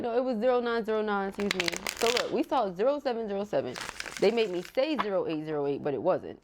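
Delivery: normal talking voice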